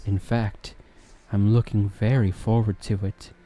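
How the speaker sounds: flirt smoothly, holding back laughter; Smooth Talker voice. Shown as a demonstration. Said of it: "I'll be using this voice".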